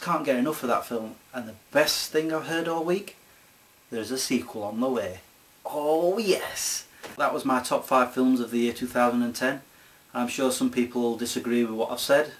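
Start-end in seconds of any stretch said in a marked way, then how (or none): 5.7-6.9 drawn-out, rising celebration; gleeful relish. Real, not acted. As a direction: savour it with mounting glee. Celebrating news of a sequel.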